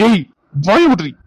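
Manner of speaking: loud angry snap; angry retort. Acted. Husband silences his arguing wife, angry snap. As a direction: cut her off hard. Husband snaps back in quarrel.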